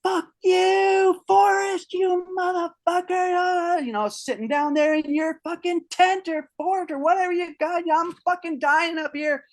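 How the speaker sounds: screaming at the top of his lungs, cursing; howling curses into the night; furious screaming. Retold or imitated. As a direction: let it all out off a cliff, raw rage. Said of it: "cliff and I say".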